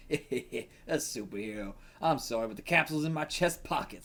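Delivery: shaky attempt at an Australian accent; badly faked Australian accent. Reader voicing the Kangaroo to Spider-Man, bad Australian accent. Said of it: "I can't do a fucking Australian accent".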